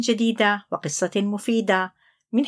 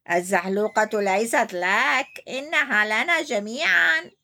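zebra replies. Acted. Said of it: "رد فلفول".

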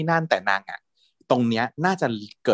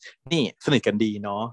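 slow sarcastic needle; mock-sweet sarcastic dig; snide jab. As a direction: drawl it out as a jealous dig. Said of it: "พัดก็เลยแขวะ".

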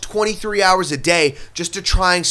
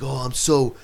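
mock complaint; 2 semitones higher than usual.

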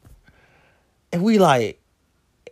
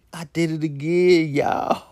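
cracking half-sob confession; laughing cry. Real, not acted. Admitting the blunder to viewers, laugh-crying. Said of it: "admits with cry".

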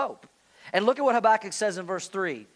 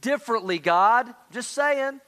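mock complaint to God; 3 semitones higher than usual. Preacher voicing the congregation's complaint to God, playfully sassy. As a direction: needle God with a wink. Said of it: "felt the same way as Habakkuk".

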